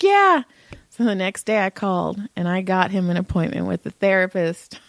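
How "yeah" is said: high, louder mock teen answer; pitched-up retold reply; upset son. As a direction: imitate a tearful kid agreeing. Crying son answers mother.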